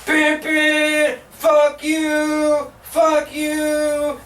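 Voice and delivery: high, held monotone honks; talking truck horn. Retold or imitated. Green Goblin truck coming at them, honked high taunt. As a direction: blare the words like a horn.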